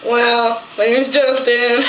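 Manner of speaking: put-on slow, drawn-out boy voice; mock a classmate slowly; impression of a classmate. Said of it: "I'm gonna do an impression of this kid".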